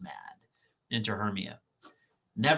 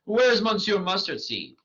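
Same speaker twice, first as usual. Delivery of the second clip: Bottom; 8 semitones higher, 4 dB louder than usual. Acted. Bottom voice, higher and bolder.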